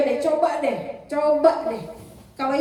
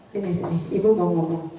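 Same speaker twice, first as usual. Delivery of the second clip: put-on soft call to child; 6 semitones lower, faster than usual. Shown as a demonstration. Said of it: "Ayo latihan ya".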